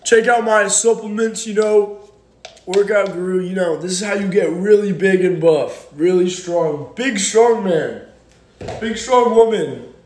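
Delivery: lightly voiced fitness influencer pitch; workout guru. Pretending to sell supplements to followers, mock workout guru. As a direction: pitch it like a hype coach, drawing out the last phrases. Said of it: "what if I was a workout guru".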